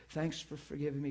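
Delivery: soft, low private prayer; troubled prayer. Retold or imitated. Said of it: "she says".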